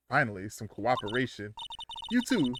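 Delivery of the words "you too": teasing Southern woman; Southern accent, playful. Acted. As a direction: coax them out in a twang. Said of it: "Why they make her Southern?".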